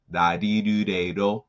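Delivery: "da-di-do-de-do" with Japanese tapped consonants; Japanese syllable demo. Shown as a demonstration. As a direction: recite "da-di-do-de-do" as even Japanese syllables. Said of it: "there are certain syllables in the Japanese".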